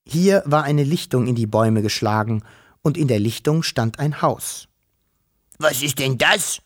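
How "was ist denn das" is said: lightly voiced puzzled dragon, rising on DAS; baffled dragon hiss. A narrator's reading. Dragon seeing a house for the first time, baffled hiss. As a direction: ask with a touch of dragon hiss, lifting das at the end. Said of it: "fauchte der Drache verblüfft".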